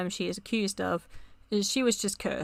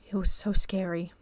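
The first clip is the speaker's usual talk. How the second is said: whispering. Acted. Confessing fear over a son.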